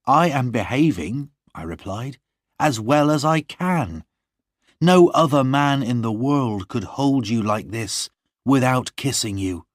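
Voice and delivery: a hint of a tender young man; John half-teasing his love; lightly voiced John.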